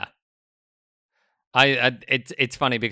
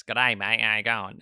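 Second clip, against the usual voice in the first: broad Ocker Australian. Shown as a demonstration. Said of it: "like, less".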